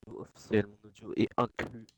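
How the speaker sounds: robotic, glitching mic voice; glitchy robotic call. Real, not acted. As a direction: sound like a broken robot on the line. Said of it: "on dirait un robot".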